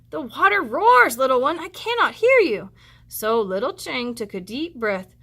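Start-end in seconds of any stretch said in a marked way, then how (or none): 0.1-2.7 a hint of a mother; lightly voiced mother who can't hear; mildly raised mother's voice. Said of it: "mother replies from afar".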